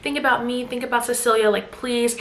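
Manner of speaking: quietly begging him to stay; wife begging husband, hushed and pleading; soft begging. Retold or imitated. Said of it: "she was just begging him".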